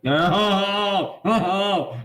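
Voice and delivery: high, rising whoops at a lucky roll; excited. Real, not acted. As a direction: react to a huge dice roll. Reacting to a big dice roll.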